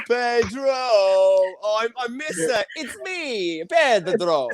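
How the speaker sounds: put-on mock Italian accent; stagey Italian lilt on a name. Host teasing the comic in a fake Italian accent. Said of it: "Why you make an Italian accent".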